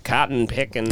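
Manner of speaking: lightly imitated Southern accent on "Cotton picking". Nephew mimics uncle back from Kentucky, mild Southern accent. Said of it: "he had a Southern accent".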